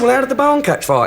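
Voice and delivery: rising mock panic. Joke: owner more alarmed.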